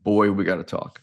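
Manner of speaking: a hint of a Georgia father-in-law; mild Georgia accent. Father-in-law greeting the groom, mild Georgia accent. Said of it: "in his best Georgia accent".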